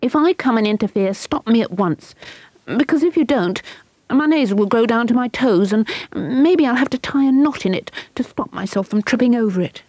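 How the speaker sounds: put-on high, eager pleading girl; begging. A narrator's reading. Ina to her friends, begging them for help, high. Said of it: "she begged".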